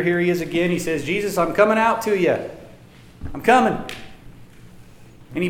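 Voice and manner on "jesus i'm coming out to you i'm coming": higher, eager call of a bold disciple; confident, raised-pitch announcement; bold Peter. Acted. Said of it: "good old bold Peter".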